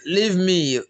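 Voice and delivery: high anguished wails building up; distant crying. A narrator's reading. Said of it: "crying from wherever she was".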